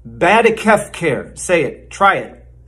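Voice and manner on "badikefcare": Badikefcare sounded out as one run-together word; mock word lesson. Shown as a demonstration. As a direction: teach Badikefcare carefully, like a real vocabulary word. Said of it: "the next word we've got is".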